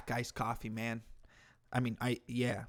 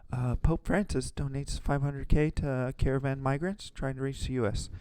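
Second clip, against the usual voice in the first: simply reading aloud. Shown as a demonstration. Host showing video makers how to just read it, plain read-out. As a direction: read out the headline in your own voice. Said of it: "just read what it says".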